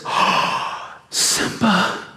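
high, slow, mocking villain voice, breathy start; mock Scar. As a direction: play a sly uncle feigning shock. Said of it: "Scar turns right then and there and says".

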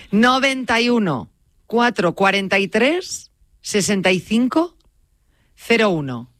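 slow, spaced-out phone number. Shown as a demonstration. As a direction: give the digits slowly, pausing between groups. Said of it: "Lo voy a decir un poco más lento".

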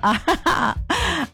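open, chuckling laugh; ha-ha-ha of real amusement; amused laugh. Real, not acted. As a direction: laugh out at the joke. Laughs at the listener's joke.

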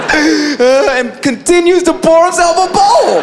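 high, slow tearful delivery; mock crying. Brother pouring himself a bowl, mock crying. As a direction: tell it through hammed-up sobs. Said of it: "Like, crying".

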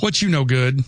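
lightly put-on Southern greeting; playful hint of Southern accent. Shown as a demonstration. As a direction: toss it out with a Southern twang. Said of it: "talk with my Southern accent".

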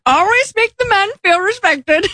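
a hint of an old-fashioned housewife; old-timey voice. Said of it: "say something funny in an old-timey voice".

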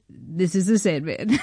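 slow, laid-back sign-off; lightly voiced cool sign-off; Adam Sandler impression. Adam Sandler hanging up with his nickname, slow and laid-back. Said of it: "Did he call himself the Sandman?".

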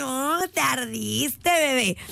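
mock taunting. Mocking an upset commenter.

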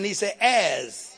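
slow, weighty "as" leaned on hard; stress on as. Shown as a demonstration. Preacher pointing the flock to the word "as", slowed and stressed. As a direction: make "as" the word they remember. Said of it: "He didn't say a roaring lion".

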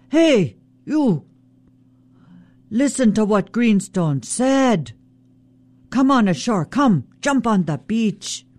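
high, taunting trickster call; Raven yelling insults. Acted. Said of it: "Raven starts yelling insults".

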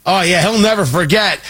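ordinary talk, nothing marked

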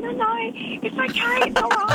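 high, hurried-to-soothe brush-off; retold reassurance. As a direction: wave away an apology in a high voice. Reassuring embarrassed friend who apologised.

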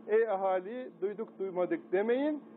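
a hint of the town crier, near plain; lightly voiced town crier. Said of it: "Ben şimdi dellal oldum".

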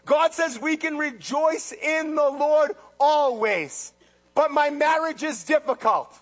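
loud, slow preaching; forceful preaching. Acted. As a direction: drive the point home.

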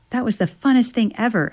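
high, excited squeal. Acted. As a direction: gush with adrenaline joy. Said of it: "I squealed".

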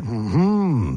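low hummed mm-hmm in a U-shaped cadence; swooping mm-hmm. Retold or imitated. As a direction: imitate a commercial's hummed tune. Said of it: "He says it".

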